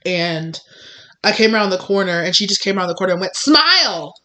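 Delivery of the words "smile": high-pitched chirp in passing; mock chirpy command. Mimicking coworker coming round the corner, mock chirpy. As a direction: imitate an intrusive cheery order.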